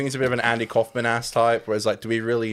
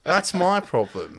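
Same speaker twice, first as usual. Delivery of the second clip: Albo impression; 5 semitones higher, slower than usual. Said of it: "I like that little sh".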